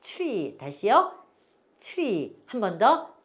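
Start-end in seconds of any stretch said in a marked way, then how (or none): 0.0-0.6 트리 as English "chree"; softer, set-apart "chree" for 트리; model for repeating. Shown as a demonstration. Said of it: "따라서 해보세요". 1.8-2.4 트리 as blended "chree"; English one-syllable 트리; model for repeating. Shown as a demonstration. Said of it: "이렇게 발음하세요".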